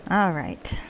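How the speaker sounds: put-on Southern US accent; terrible Southern accent. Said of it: "We'll try this terrible Southern accent".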